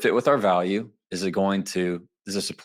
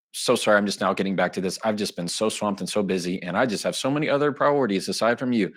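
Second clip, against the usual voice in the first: fast, gushing apology; over-apologetic. Shown as a demonstration. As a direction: pile on the excuses, slightly hammed. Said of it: "Like that right there".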